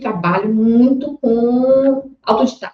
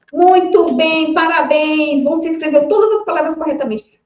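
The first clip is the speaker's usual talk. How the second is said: high, delighted teacher praise; praising a child; 6 semitones higher than usual. Acted. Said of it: "E aí, quando terminou a tarefa". (elogio animado de professora para criança)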